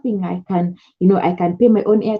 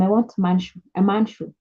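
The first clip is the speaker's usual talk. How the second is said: "I want man shoe" in plain level voice; simple English; 3 dB quieter than usual. Shown as a demonstration. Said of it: "Tell them".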